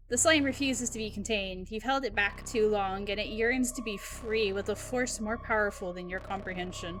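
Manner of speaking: dramatic game narration; story narration. A narrator's reading. Narrator tells of slime fighting to escape, dramatic narration. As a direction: narrate the rising danger like a storybook.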